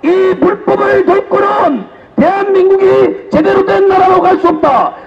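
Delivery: shouted political rally speech; roaring rallying speech. Real, not acted. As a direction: rouse the crowd at full force.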